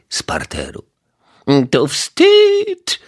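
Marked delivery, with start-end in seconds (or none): 1.7-3.0 put-on high, loud scolding old lady; grumbling neighbour. A narrator's reading. Old neighbour scolding through the door, high indignant voice. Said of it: "pomstowała pani Majewska".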